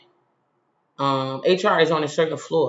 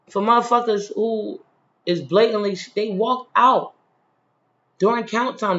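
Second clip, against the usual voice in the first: angry rant; 4 semitones higher than usual. Real, not acted. Ranting at the guard.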